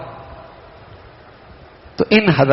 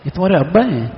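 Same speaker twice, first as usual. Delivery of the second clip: can't believe this is the father; astonished; faster than usual. Shown as a demonstration. Speaker doubts the child's father is his, astonished. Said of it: "میں تعجب بھی کر رہا ہوں".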